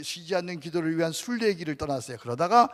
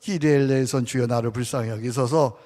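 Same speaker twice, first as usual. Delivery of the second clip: prayer demo; 4 semitones lower, 4 dB louder than usual. Shown as a demonstration. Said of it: "어떻게 한다고요?".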